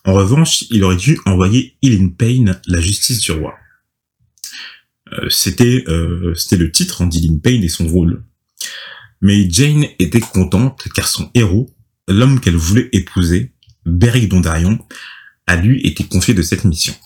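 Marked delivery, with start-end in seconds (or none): 0.1-3.5 measured storytelling read; scripted recap narration. A narrator's reading. 9.2-16.9 measured storytelling read; scripted recap narration. A narrator's reading.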